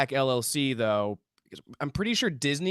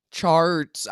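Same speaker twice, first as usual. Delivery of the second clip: "Charts." said clearly and louder, falling at the end; louder repeat; 2 semitones lower, 4 dB louder than usual. Acted. Answering his friend's what was that, a louder repeat. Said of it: "What was that?".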